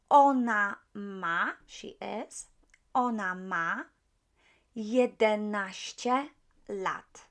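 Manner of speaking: ona ma jedenaście lat said slowly in Polish; model answer. Shown as a demonstration. Teacher slowly modelling the Polish answer. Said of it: "She's eleven".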